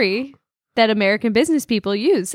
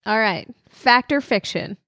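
game show host. Shown as a demonstration. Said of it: "game host asks".

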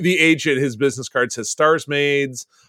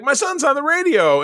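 Grandpa voice; 12 semitones higher than usual. Retold or imitated. Grandpa quoted proudly.

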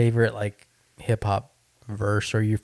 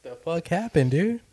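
higher, laughing disbelief; 5 semitones higher than usual. Real, not acted. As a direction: laugh out the question. Laughing at the mishap.

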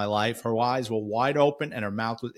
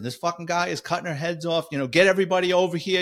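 panicked radio call; 5 semitones higher, faster than usual. Retold or imitated. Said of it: "the panic in that cop's voice".

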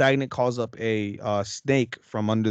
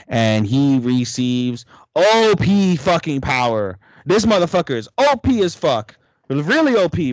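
louder, higher hyped storytelling; 4 semitones higher, 6 dB louder than usual. Real, not acted. Telling a friend about the hero's power, hyped up. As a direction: hype up how overpowered he is.

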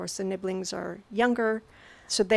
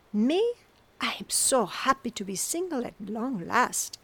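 whispering; 3 semitones higher than usual. Acted. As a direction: whisper it like a secret relief. Whispered quote from a story.

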